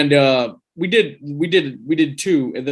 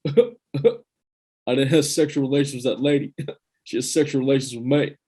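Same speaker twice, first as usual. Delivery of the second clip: Bill Clinton impression. Host showing his old Clinton impression to the cohosts, lightly voiced. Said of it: "Bill Clinton's simple".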